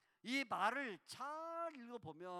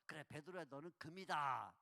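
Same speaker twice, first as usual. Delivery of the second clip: mild flattery; 7 semitones lower than usual. Pretend. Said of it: "눈치껏 맞추셔서".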